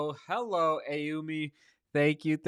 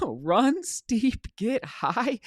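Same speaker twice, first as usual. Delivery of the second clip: excited motto; 9 semitones higher, much slower than usual. Real, not acted. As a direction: Run steep, get high said much higher with a laugh. Quoting viewer's motto, excited.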